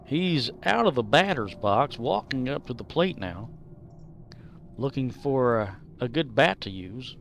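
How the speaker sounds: lightly voiced baseball commentator; mock sports commentary. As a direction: call it like a ballgame announcer. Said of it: "Let's commentate while we do this".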